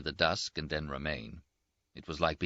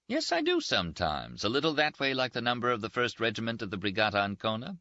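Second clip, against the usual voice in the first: lightly voiced Rinaldi, a bit higher and teasing; teasing Italian friend; 6 semitones higher than usual. Rinaldi teases his wounded roommate, lightly voiced higher banter. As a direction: toast him with mocking cheer.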